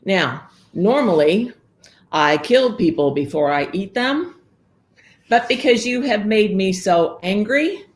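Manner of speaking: put-on ogre threatening to eat the girl; furious ogre. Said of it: "I am furious".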